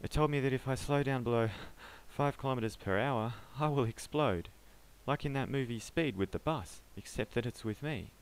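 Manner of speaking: panicked pleading. Acted. Panicked man pleads his case.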